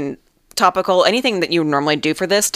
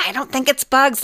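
high mocking doctor voice; quoting the doctor higher; mocking the dermatologist; 9 semitones higher than usual. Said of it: "she's like".

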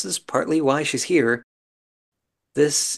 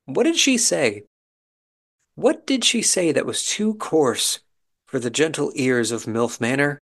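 mock wonder; 2 semitones higher than usual. Real, not acted. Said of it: "mock wonder at bleeped word".

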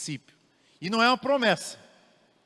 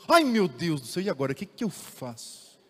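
mock panic; 3 dB louder than usual. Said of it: "Deus falou".

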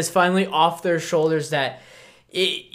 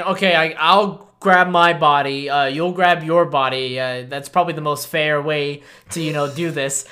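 matter-of-fact, sinking lower as it goes; nonchalant grandfather; 4 semitones lower than usual. Retold or imitated. Grandfather to grandson about burying bodies, nonchalant. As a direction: lay out a grim chore as routine, voice dropping. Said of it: "It's just as if nothing happened".

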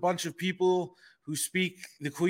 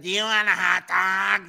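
louder, higher bad British take on an American accent; mock American accent; 4 semitones higher, 6 dB louder than usual. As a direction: imitate a Brit badly faking American. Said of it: "The one woman that said".

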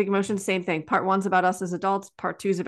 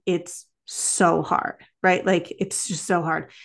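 gentle sympathy; slower than usual. Retold or imitated. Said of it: "And I was like".

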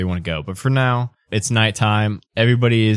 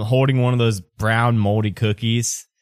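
ordinary talk

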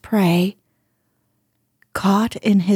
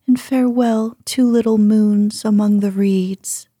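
tender farewell. Acted. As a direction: lift the farewell gently. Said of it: "The princess cried in heron's language".

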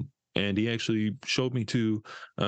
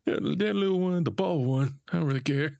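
mock callous; 10 semitones higher than usual. Joking about disposable characters.

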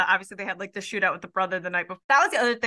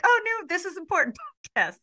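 mock excited; 9 semitones higher, faster than usual. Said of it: "And I was like".

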